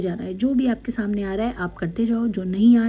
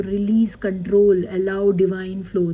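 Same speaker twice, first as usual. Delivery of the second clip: slow card reading; 3 dB louder, much slower than usual. Acted.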